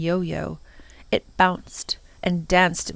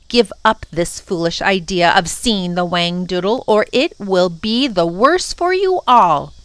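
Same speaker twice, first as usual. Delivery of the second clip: menacing warning; 2 semitones higher, 4 dB louder than usual. Acted. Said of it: "eyes glittering with anger".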